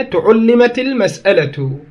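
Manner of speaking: تعلمت slowly with u on the ta and the ʕain; careful demo of تعلمت, slow; tuʕullimat demo. Shown as a demonstration. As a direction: spell out تعلمت with both u sounds. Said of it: "بضم التاء والعين".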